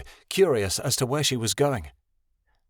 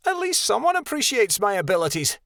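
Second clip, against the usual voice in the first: higher proud voice, only a touch louder; lightly raised boast; loudly; 11 semitones higher than usual. A narrator's reading. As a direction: show off a bit loudly. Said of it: "Rebecca said loudly".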